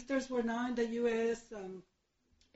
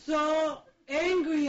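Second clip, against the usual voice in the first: slow, loud, laughing through the words; a real laugh, louder and drawn out; laughing about anger; 4 semitones higher, 7 dB louder than usual. Real, not acted. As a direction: laugh while admitting the rage. Laughing at her own rage.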